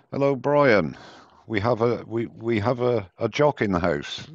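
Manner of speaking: lightly attempted Scottish accent. Host teasing Brian, a jock in the house, attempted Scottish accent. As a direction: have a poor go at sounding Scottish. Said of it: "I can never do a Scottish accent".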